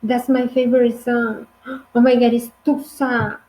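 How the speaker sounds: thrilled about a favourite song at a party; excited partygoer. Acted. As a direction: gasp and gush over a favourite song. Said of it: "and you say".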